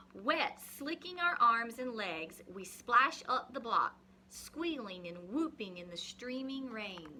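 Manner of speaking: put-on reading a picture book to children; story reading. Teacher reading a rain story to the class, expressive reading.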